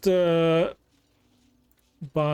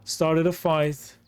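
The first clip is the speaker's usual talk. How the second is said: slow, gloating villain taunt; sneering panto villain; slower than usual. Acted. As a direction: drawl it like a pantomime baddie. Taunting enemies in game.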